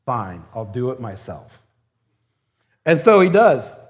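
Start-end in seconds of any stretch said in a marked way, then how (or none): 0.1-1.6 lower, grudging give-in; resigned mutter. Pretend. Jesus giving up on the disciples, resigned. Jesus exasperated after sigh.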